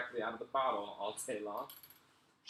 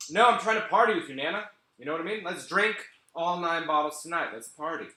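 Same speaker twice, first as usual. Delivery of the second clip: mock party hype; 4 semitones higher, 7 dB louder than usual. Urging grandma to party.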